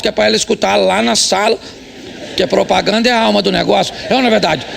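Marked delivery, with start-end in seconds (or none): none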